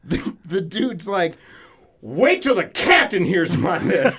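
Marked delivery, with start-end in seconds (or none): 2.0-4.2 huffy threat. Retold or imitated. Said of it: "In a real huffy".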